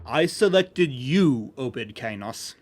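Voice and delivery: put-on very slow, spelled-out words for a child; talking to a small child. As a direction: explain it slowly like to a small child. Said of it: "in a voice meant for teaching young children".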